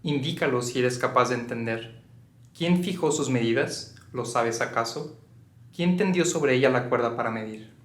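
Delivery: low-key, measured recitation of scripture; scripture reading. Acted. Reading Job aloud before noticing the audience, measured scripture reading. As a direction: read the verse aloud, pausing between questions.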